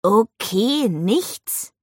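puzzled reading, rising in question; confused. A narrator's reading. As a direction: read it out as if baffled. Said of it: "Ravi klang verwirrt". (verwirrt, fragend)

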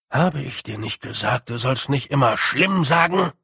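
a gruff little warrior, grim and serious; gruff Rob. Acted. Rob warns the others about the Wintersmith, gruff and grim. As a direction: mutter darkly about the Winter smith.

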